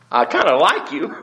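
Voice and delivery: laughing through I kinda like you; sheepish laugh. Pretend. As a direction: backpedal with a sheepish chuckle. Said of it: "I used too strong a word".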